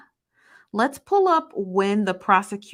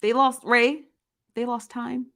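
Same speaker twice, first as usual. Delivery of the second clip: higher, fighting back a laugh; laughing disbelief to a viewer; stifled laughter; 5 semitones higher than usual. Real, not acted. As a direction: hold in the giggles. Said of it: "I'm trying not to laugh".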